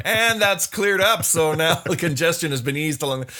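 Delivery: traffic reporter voice. Retold or imitated. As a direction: calmly report the road is clear. Reporter after explosion.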